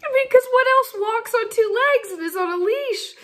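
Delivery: high, breaking into laughter between words; can barely get it out for laughing; laughing while telling. Real, not acted. Teller laughing through the story.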